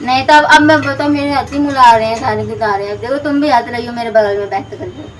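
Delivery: tongue-tied mock protest; put-on lisp. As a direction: fake lisped complaint. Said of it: "मत तोतला".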